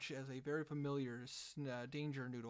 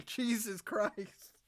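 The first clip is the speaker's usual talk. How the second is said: laughing disbelief; 8 semitones higher, 9 dB louder, much slower than usual. Real, not acted. GM reacts to natural twenty.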